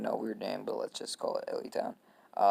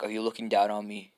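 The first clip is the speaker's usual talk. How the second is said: mildly affronted challenge in usual pitch; 5 dB louder, faster than usual. Acted. Kid who feels pitied challenges Naruto, affronted. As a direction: put it as an open challenge. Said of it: "this kid takes it as, like, pity".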